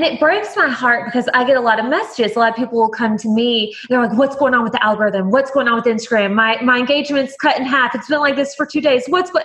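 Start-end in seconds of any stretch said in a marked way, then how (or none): 4.2-9.4 quick, climbing worried rant, mostly higher; mock panic. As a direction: rattle it off like a follower panicking over numbers. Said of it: "and they're freaking out".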